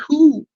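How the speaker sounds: high, loud whoo of discomfort; cringing whoo. Retold or imitated. Viewer reacting to intimate details on screen, cringing.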